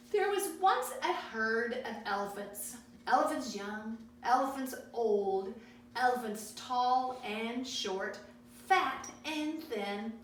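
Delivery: put-on paced read-aloud for children, pausing between pages; a gentle picture-book read-aloud; storybook reading. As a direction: read each page to the kids. Reads Elmer aloud.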